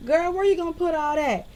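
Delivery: lightly voiced nosy cashier; mock nosy cashier. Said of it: "they listen to me order".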